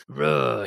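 short crunchy grunt imitating an angry teacher; raspy growl. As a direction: growl it with barely moving lips. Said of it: "crunchy rasp to his voice".

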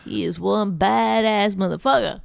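lightly hammed-up seventies jive; mock seventies hipster. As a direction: imitate a seventies cool cat. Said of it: "like a seventies black guy".

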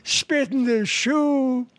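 put-on slow Jewish-accented lament, rising at the end. Jewish passenger laments the endless feud, slow Jewish accent. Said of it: "The Jewish guy says".

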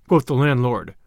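plain reading voice

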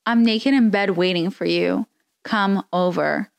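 a lightly sultry read; hint of a seductive purr, barely shifted; reading sexts in a mild mock sexy voice. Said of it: "I'm gonna try again".

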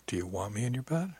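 soft, hushed, leaning in close; whispering. A narrator's reading. He leans in to her after her tease, softly whispering. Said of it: "leaning in and whispering".

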